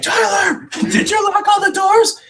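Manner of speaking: high, loud mock call. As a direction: shout across the locker room. Everyone calls out to Tyler.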